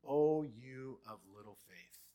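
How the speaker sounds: Jesus calmly teasing disciples; gentle Jesus voice. Acted. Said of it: "what does Jesus say".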